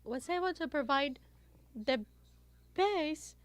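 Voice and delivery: muffled by a face mask; through a face mask. Real, not acted. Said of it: "I'll remove my face mask to ensure that you're able".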